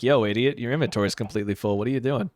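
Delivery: a lightly voiced sassy chicken; fast mock chicken taunt. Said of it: "That chicken's like".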